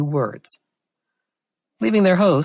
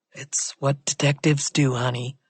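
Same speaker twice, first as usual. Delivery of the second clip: smug. A narrator's reading. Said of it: "he replied smugly".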